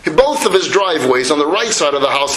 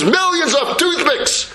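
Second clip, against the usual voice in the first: slower and higher, savouring millions; proud boast; 8 semitones higher, slower than usual. Acted. Son tells his father proudly about his purchase, slow and savoured. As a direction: stretch out millions of toothpicks with pride.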